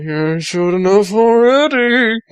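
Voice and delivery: a hint of a cocky Sonic; voicing Sonic. Sonic's line voiced in story.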